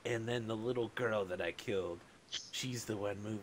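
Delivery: spooky oracle voice. Retold or imitated. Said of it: "you just be like".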